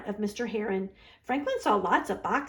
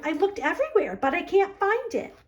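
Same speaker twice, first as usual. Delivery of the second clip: Franklin, upset; 7 semitones higher than usual. A narrator's reading. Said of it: "Franklin replied".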